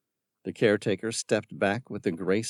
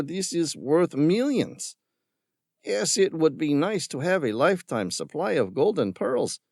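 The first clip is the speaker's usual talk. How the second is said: mocking villain; 10 semitones higher than usual. A narrator's reading. Villain scorning Tom's concern for the creatures. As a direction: sneer at the tree hugger. Ramirez mocks Tom.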